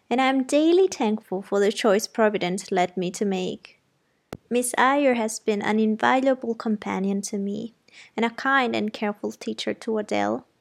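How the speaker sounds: a hint of a fond old lady vouching for her; the housekeeper speaking up for her governess, mildly voiced; lightly voiced kindly old housekeeper. Fairfax's voice, praising Jane.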